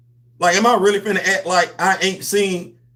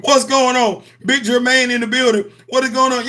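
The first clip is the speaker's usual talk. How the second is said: hyped greeting; 6 semitones higher than usual. Real, not acted. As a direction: shout out the viewer like a host. Greeting the viewer again.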